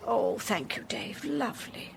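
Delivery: a soft whispered thank you, no voice. Acted. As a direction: whisper it so the caller can't hear. Thanked for coffee during phone call.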